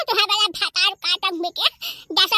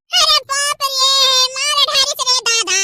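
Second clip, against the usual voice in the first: pained cry; 4 semitones higher, 3 dB louder than usual. Acted. Woman beaten by her neighbour, crying out in pain. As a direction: yelp out as if being beaten. Being beaten in a village fight.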